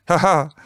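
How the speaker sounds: high read-out "haha"; mock laugh. A narrator's reading. Quiz host laughing at the contestant, short high haha. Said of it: "lachte Astrid".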